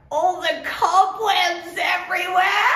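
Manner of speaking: high teasing shout; mock shout. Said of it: "then she was like".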